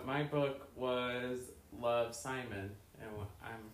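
muffled through a pillow. Real, not acted. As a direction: talk with a pillow over your mouth. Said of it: "speaking through a pillow".

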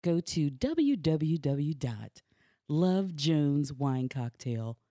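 slow, smooth sponsor read. Acted. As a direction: read it like a radio ad.

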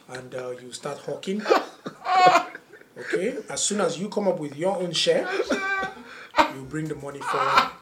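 grave, deadpan imitation of dad; solemn father. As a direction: lay out the plan like a serious father. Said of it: "he had this seriousness in his face".

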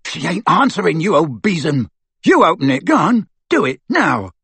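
loud, rough bullying; coarse thug. Acted. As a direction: push her around. Amycus voiced in story.

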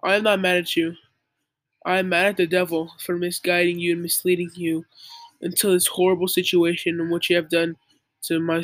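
lightly voiced wise, forgiving father; a hint of a wise old dad, calm and measured. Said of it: "in such a wise voice".

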